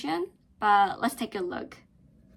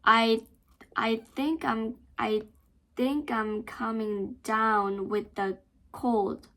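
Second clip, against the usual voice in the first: slow, I punched then think; slow stress drill; slower than usual. Shown as a demonstration. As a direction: hit the first I hard. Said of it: "you can stress".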